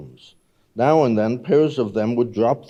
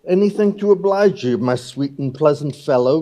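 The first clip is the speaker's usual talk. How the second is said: mock sweetness; 3 semitones higher, 3 dB louder than usual. Stubb's mock-sweet reply.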